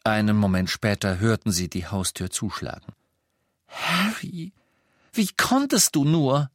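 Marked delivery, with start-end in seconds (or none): 3.7-6.5 high, shocked reproach; how could you; reproachful. A narrator's reading. Hermine reproaches Harry. (Hermine macht Harry entsetzt Vorwürfe)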